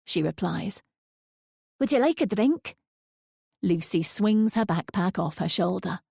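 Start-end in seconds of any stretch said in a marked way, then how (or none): 1.8-2.8 put-on higher, kindly old lady; old lady's voice. A narrator's reading. Linda offering Lucy a drink, kindly. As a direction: warm offer.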